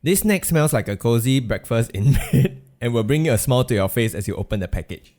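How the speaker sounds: smooth it out like a radio read; smoother narration. Pretend. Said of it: "I try more smooth".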